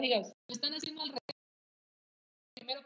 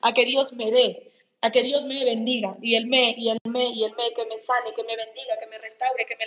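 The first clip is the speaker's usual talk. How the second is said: rising preaching; 4 dB louder than usual. Acted. Predicador se indigna en crescendo.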